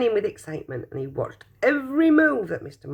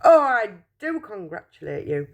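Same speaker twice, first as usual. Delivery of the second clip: delighted cry; 3 semitones higher than usual. Acted. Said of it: "he cried".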